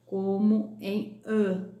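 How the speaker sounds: ã drawn out slowly with a nasal sound; slow nasal ã for the class; nasal ã demo. Shown as a demonstration. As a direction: stretch the ã through the nose. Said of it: "som nasal".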